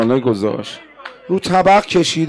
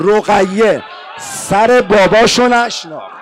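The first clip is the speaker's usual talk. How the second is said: slow emphatic cry; 3 semitones higher than usual. Shown as a demonstration.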